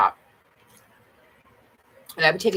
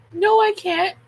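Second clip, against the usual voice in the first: laughing denial; 13 semitones higher, 5 dB louder, slower than usual. Real, not acted. Laughing retraction of quote.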